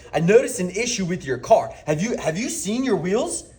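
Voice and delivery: lifted emphasis on ISSUE, rising on WHEELS; emphasized sales line. Shown as a demonstration. Salesman to homeowner at the door, emphasizing the car issue. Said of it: "and I'm emphasizing".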